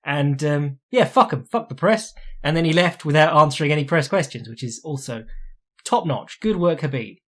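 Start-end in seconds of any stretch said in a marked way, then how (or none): 0.9-2.1 higher, indignant dismissal; exasperated outburst. Real, not acted. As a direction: spit it out at the press. Venting at the press.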